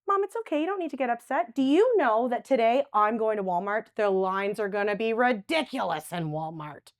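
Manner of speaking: soothing, upbeat comfort; calm her down, then brighten; reassuring. Shown as a demonstration. Demonstrating how to calm a distressed mother, reassuring. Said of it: "Just asking questions".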